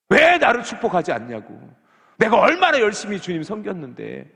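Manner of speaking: high, loud, indignant protest; aggrieved complaint. Retold or imitated. Believer demanding God's blessing, loud indignant complaint. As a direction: demand the blessing you think you earned.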